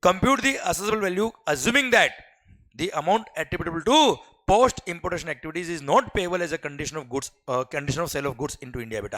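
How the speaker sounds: very slow, each word spaced out for note-taking; slow dictation. Shown as a demonstration. Teacher dictating the customs question to the class. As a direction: read it out so students can copy.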